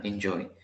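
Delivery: enjoy with the stress on JOY; light en, strong JOY; stress on last syllable. Shown as a demonstration. Teacher confirming the accent at the end, final-syllable stress. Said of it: "Al final".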